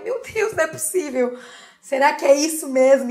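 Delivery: gasping at the result; surprised disbelief. Retold or imitated. Retold shock at few errors. (surpresa incrédula)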